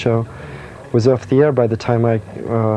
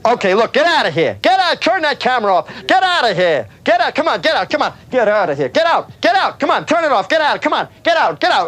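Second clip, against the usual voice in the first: much higher angry shouts to get out; bad guy; 10 semitones higher than usual. Playing the bad guy, yells at the crew to leave. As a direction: chase the camera crew away, yelling. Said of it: "You want me to be the bad guy?".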